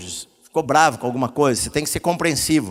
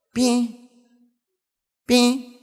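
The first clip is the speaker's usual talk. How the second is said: higher pim of a falling drop; dripping sound; 7 semitones higher than usual. Shown as a demonstration. Pastor repeating the drip for the congregation, light plink. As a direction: plink like water into a bucket. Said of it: "goteira quando chove".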